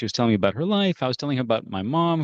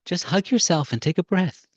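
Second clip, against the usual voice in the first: put-on old woman; 7 semitones higher, slower than usual. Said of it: "put her hand on my shoulder".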